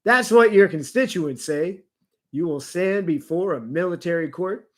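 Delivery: heightened, theatrical news reading; dramatic narration. Acted. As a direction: read it like a dramatic news story. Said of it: "some dramatic narration".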